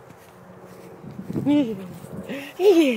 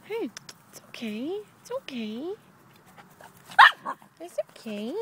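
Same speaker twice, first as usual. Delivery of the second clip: soft reassuring it's okay; calm the dog gently and softly; soothing; 3 dB quieter than usual. Real, not acted.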